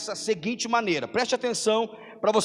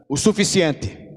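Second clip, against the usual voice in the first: loud, blunt and dismissive; rude curt reply; 8 dB louder than usual. Retold or imitated. Fisherman snubbing the preacher's question, loud and rude. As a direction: give nothing away, bluntly. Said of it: "Uma grosseria total".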